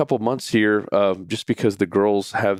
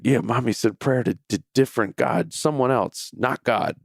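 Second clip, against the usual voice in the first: higher, lightly voiced child; upset little boy; 4 semitones higher than usual. Crying son explaining to dad, mildly upset, higher. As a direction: imitate an upset kid without real tears. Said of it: "He's crying".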